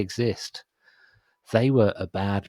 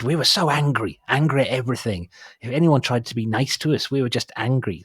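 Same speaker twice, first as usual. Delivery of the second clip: awful imitation of a Welsh accent; a weak, hammed-up Welsh accent; 3 semitones higher than usual. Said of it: "So that's my awful Welsh accent".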